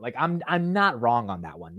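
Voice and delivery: usual speaking voice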